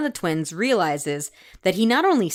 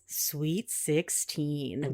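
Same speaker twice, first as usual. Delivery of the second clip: slow, low ogre voice; 4 semitones lower, 10 dB quieter, much slower than usual. Retold or imitated. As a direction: drawl it like a gross ogre. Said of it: "In a, like, an ogre voice".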